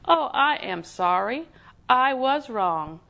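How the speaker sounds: slow, robotic-sounding mock apology; monotone apology. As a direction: drone out the apology word by word, as a joke. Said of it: "with a very monotone voice".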